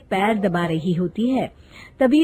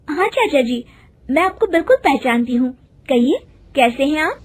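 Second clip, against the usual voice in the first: higher-pitched, respectful greeting; polite young woman; 5 semitones higher than usual. Acted. Voices young woman greeting clerk. (विनम्र युवती की आवाज़)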